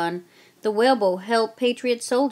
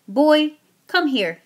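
loud, higher, slow summons; commanding call; 7 semitones higher, 7 dB louder, slower than usual. Acted. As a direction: order the boy over. Soldier summons the boy.

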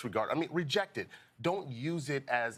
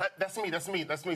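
put-on timid kid voice; 5 semitones higher than usual. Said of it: "before I would hide when the teacher".

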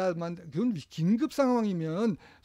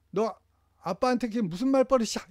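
higher, louder scolding rebuke; scolding parent; 4 semitones higher, 3 dB louder than usual. Shown as a demonstration. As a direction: tell the child off sharply. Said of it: "이렇게 확". (꾸짖는 부모 말투)

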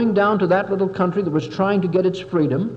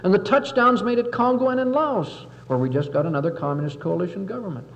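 indignant senator; 3 semitones higher than usual. Retold or imitated. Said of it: "He said".

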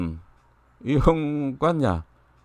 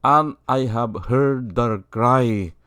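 quoting God; 6 semitones lower, much slower than usual. Retold or imitated. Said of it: "sabi niya eh".

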